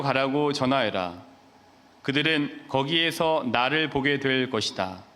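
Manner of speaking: measured, solemn scripture reading; Gospel reading. Acted. Priest reading the Gospel to the congregation, solemn and measured. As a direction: read it out evenly and formally, verse by verse.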